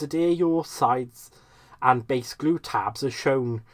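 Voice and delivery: put-on lilting Welsh accent, demonstrating purse-making steps; Welsh-accented presenter. Crafter mimicking a Tonic tutorial video, Welsh accent. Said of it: "the accent just felt right".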